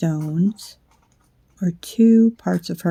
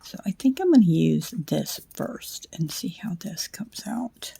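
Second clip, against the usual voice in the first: whispering; 3 dB quieter than usual. Real, not acted. Late-night craft video, hushed.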